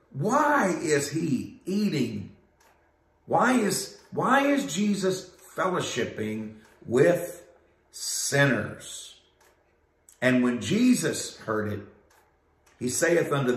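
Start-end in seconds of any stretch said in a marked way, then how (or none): 0.1-9.2 mock uppity Pharisee. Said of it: "their uppity attitude".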